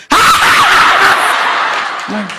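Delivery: high, long mock laugh; exaggerated shrieking laugh, put on; imitated sudden laugh. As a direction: burst out in an imitation of her startling laugh. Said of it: "Tự nhiên nói xong bà cười".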